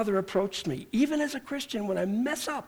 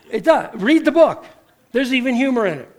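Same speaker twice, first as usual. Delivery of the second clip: rising preacher shout; 5 semitones higher, 8 dB louder than usual. Real, not acted.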